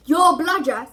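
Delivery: loud, stunned echo of YOUR; angry echo. A narrator's reading. Harry echoes the elf, loud and shocked. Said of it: "anger rising once more".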